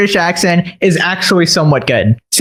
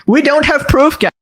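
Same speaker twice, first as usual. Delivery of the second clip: a higher mock Hassan voice, doubtful; skeptical Hassan; 7 semitones higher than usual. Mocking Hassan's skeptical doubting voice. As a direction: raise the pitch and doubt everything. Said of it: "Hassan gets skeptical and goes".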